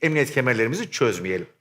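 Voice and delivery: pilot over the radio. Acted. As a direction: settle them in like a real captain. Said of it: "yap şu anonsu". (sakin pilot anonsu)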